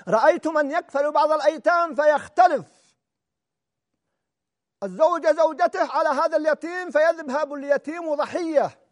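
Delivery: a sudden shout of indignation; preacher rebuking harshly. Real, not acted. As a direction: call it out to the congregation. Preacher denounces abuse of orphans.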